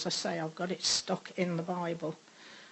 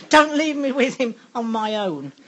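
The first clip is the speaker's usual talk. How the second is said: loud, high, desperate retold scream; screamed plea; 4 semitones higher, 9 dB louder than usual. Panicked woman begging the rector's wife to stay, loud scream. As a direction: scream it out, begging not to be left. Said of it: "I screamed at this".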